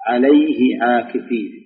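slow, drawn-out recitation of لن نبرح; Quran recitation. Shown as a demonstration. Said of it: "قال الله تعالى".

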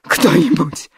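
mild hoarse wheeze; wheezing. A narrator's reading. Natalia collapses in the chair, mild wheeze. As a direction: gasp it out hoarsely. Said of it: "прохрипела она".

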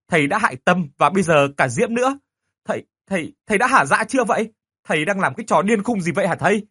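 high furious demanding shout; angry shouting. Acted. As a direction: yell accusingly at the teacher. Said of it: "Tôi điên tiết quát lên". (hét lên giận dữ)

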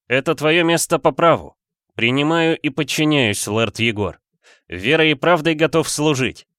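ritual oath. A narrator's reading. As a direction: swear fealty formally to your lord. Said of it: "произнёс я ритуальную фразу". (торжественная клятва верности)

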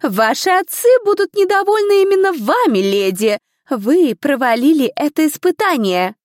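a strict examiner reprimanding the ladies; stern stewardess. A narrator's reading. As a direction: scold the failed girls from above. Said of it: "резко прервала её леди Камилия".

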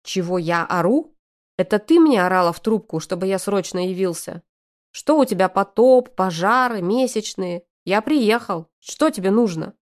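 angry, loud man's rant; furious outburst. Acted. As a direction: pour out the anger in a heated rush. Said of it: "сказано на таких эмоциях".

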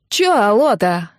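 медленно, напоказ громче, с наездом; нагло протяни вопрос в трубку; грубая девушка в трубке. Acted. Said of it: "осведомилась трубка женским голосом". (грубая незнакомка хамит по телефону, медленно и напористо)

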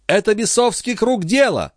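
very high, fearful outcry; very high anguished girl voice; frantic young woman. Acted. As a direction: blame devilry. Lorenza cries out.

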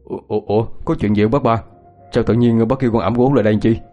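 understated bewilderment; surprised. Acted. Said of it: "hỏi với giọng ngạc nhiên".

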